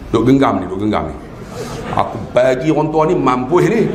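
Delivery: low, muttered inner grumble; inward grumbling. Retold or imitated. Student silently fuming at the sheikh, grumbling. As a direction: grumble privately to yourself. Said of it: "Ya, dalam hati ni".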